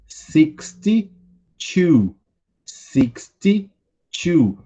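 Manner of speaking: "Forty-four" drawn out syllable by syllable; very slow model reading. Shown as a demonstration. Teacher to class repeating after him: very slow, careful. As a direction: read "Forty-four" slowly for students to copy. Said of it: "vocês podem ir repetindo aí comigo".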